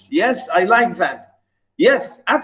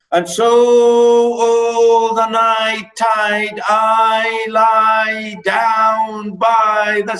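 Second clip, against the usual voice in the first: drawn-out, swelling lament; mournful; 3 semitones higher, much slower than usual. Acted. Reciting the poet's grief to students, slow and swelling. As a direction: stretch each word out in grief. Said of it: "the poet here is nearly crying".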